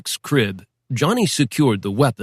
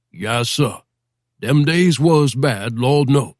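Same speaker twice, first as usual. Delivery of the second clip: talking-to-the-man voice; slower than usual. Acted. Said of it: "talking-to-the-man voice".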